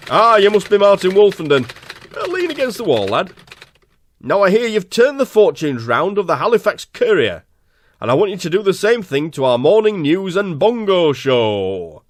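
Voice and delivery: lightly voiced blustery Yorkshire boss; a hint of a bossy manager greeting a new hire; station manager voice.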